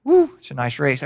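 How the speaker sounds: understated mock spectator remark; mild, offhand cheer. Preacher mocking a half-hearted race fan, mild and offhand. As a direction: toss it off without much interest. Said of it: "they're not just saying".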